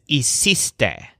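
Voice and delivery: hiciste said slowly, stressing its middle syllable "cis"; hiciste, slow and clear, middle syllable stressed. Shown as a demonstration. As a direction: lean on the "cease" sound inside hiciste. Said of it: "with the stressed syllable cease".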